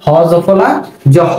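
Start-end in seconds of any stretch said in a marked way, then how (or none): 1.2-1.3 জহ said as a short "jo"; j sound. Shown as a demonstration. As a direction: give জহ a j sound, with no h at the start. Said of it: "এরকম হবে উচ্চারণ".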